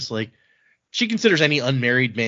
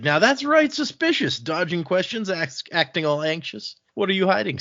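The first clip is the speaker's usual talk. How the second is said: high-pitched, accusing mock Cockney; Cockney accent; 6 semitones higher than usual. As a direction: grill him in a playful Cockney voice. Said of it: "his accent definitely sounds like Cockney".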